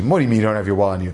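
low, rapid retold challenge; suspicious. Pharmacist questions customer without a wallet, suspicious. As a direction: question him fast and low. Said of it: "looks at him suspiciously".

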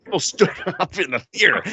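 laughing through "People stood up in the theater", pitch high. Real, not acted. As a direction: giggle while telling it. Laughing while recounting the movie.

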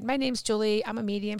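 brisk, throwaway self-introduction; flippant. Retold or imitated. Student brushing off her advisor's exercise, flippant. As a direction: toss it off as if it means nothing. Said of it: "I very flippantly said".

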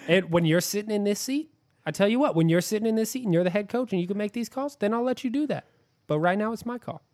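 Hugh Jackson. Retold or imitated. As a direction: lecture them like a self-important boss. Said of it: "That's what Hugh would say".

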